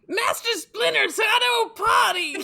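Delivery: high excited shout. Acted. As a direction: yell it out with glee. Excited quoting of a movie line.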